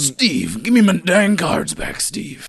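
high, pleading whine; whiny bullied kid. Pretend. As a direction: beg for the cards back.

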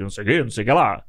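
quick, lightly voiced imitation of a toy's recorded line; a hint of the talking Buzz doll, rattled off fast. Podcaster mimicking Chris Evans slipping into toy Buzz, lightly voiced. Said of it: "ele faz uma entonação do Buzz".

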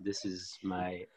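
low slow radio announcer voice; deep and smooth like a DJ. Pretend. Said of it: "my radio voice".

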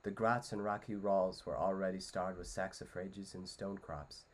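lightly voiced storytelling read; Frodo storytelling. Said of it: "here's my best Frodo impression".

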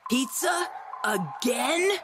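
incredulous. Acted. Incredulous repeat.

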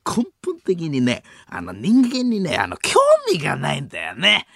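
comedian denouncing partner. Acted. Comedian exposing another's coldness to co-stars, mock-indignant impression. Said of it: "爆笑問題、 太田光を".

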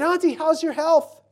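loud, high, drawn-out question; calling to auntie. Retold or imitated. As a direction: ask an old aunt slowly, loud and high. Asking elderly aunt about health.

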